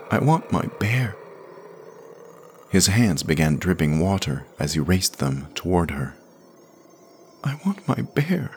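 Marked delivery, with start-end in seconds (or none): 0.1-1.2 put-on higher child's voice, stressing want; a kid begging for his toy; lightly voiced whining boy; pleading boy. A narrator's reading. Jamie pleads. 7.4-8.5 put-on much higher, strained child's plea; high tearful whine; desperate boy. A narrator's reading. Jamie pleads again, stronger.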